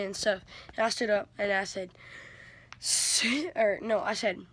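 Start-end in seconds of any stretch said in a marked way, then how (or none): 2.8-3.5 higher, louder cut-off command; retold yell. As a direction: call it out sharply, then stop. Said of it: "Why were you yelling?".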